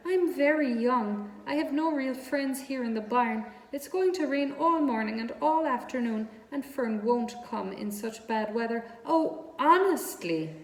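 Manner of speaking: high, loud self-pitying wail; groaning lament. A narrator's reading. Lonely pig wailing to himself in the barn, high and loud. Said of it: "he groaned".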